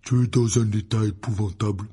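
big grumbling Hagrid-style character voice. A narrator's reading. Hagrid scolds Harry over his sooty state, grumbling. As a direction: grumble in disapproval. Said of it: "ronchonna Hagrid".

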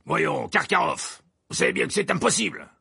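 jovial Verpet. A narrator's reading. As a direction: Verpet dismissing the demand, upbeat. Verpet écarte la demande. (voix haute et enjouée de Verpet)

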